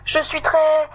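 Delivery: stammering. Acted. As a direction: trip over every word in fear. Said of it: "bégaye Totoche".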